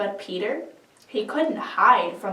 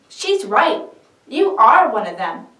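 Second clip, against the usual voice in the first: higher, louder insistence; loud accusation; 7 semitones higher, 7 dB louder than usual. Acted. Man by the fire accuses Peter, loud and high. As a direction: back her up, pressing hard.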